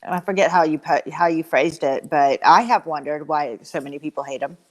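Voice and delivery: talking around a lollipop; words round a sucker in the mouth; mouth full. Real, not acted. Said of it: "I have a sucker in my mouth".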